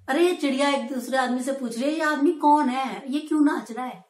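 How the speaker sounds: mother's teasing words ending in a laugh; teasing through a light laugh. Retold or imitated. Mother laughing at the father as he jumps about. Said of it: "हंसकर बोली".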